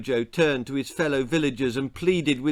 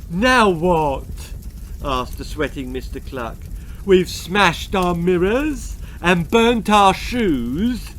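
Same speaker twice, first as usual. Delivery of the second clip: a hint of a pompous villager, higher; proud little man, a touch puffed up; lightly voiced Mister Cluck; 5 semitones higher, 4 dB louder, slower than usual. A narrator's reading. Mister Cluck boasts to the messenger, lightly voiced.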